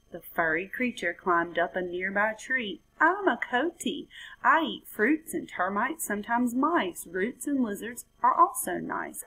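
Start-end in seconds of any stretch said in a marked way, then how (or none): 3.0-9.2 higher, lightly voiced coati. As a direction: answer in a friendly animal voice. Coati answers frog.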